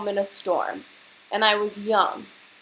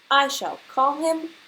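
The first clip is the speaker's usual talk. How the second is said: louder, grand naming of the bird; proud old lady; 6 semitones higher, 6 dB louder than usual. Acted. Angela proudly naming her bird, lightly grand. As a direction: announce the name with ceremony. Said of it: "said Angela".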